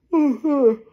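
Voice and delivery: quick high amused laugh; short laugh. Real, not acted. Retelling the bartender's offer, amused laugh. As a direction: burst out laughing.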